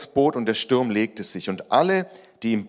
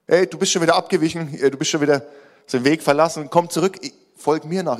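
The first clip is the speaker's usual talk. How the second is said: higher, urgent reproach; lightly acted shepherd's scolding; calling back a strayer; 5 semitones higher, 3 dB louder, faster than usual. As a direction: call a wanderer back to the path. Jesus calls back a straying follower.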